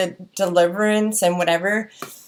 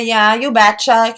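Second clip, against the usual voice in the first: louder, slow Minnesota folksy catchphrase; mock Minnesota accent; 3 semitones higher, 5 dB louder than usual. Vlogger mimicking Upper Midwest talk, mock Minnesota accent. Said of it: "a little more Minnesota than us".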